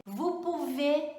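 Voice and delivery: slow "Vous pouvez" as voo poo-vay; "pouvez" ending on closed é, no z; silent final consonants. Shown as a demonstration. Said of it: "isso acontece com outras".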